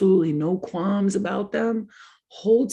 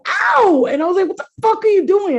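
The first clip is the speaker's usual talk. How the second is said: high yelping cry of pain then outrage; startled yell; 13 semitones higher, 8 dB louder than usual. Retold or imitated. Girl yelling at a boy who squeezed too hard. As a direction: yelp and snap at him.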